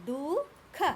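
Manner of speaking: दुख split into two drawn-out parts; hidden visarga demonstration. Shown as a demonstration. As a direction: break दुख apart to show the hidden h. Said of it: "इसमें बीच में ह छुपा है". (दुख को तोड़कर, बीच का ह दिखाते हुए)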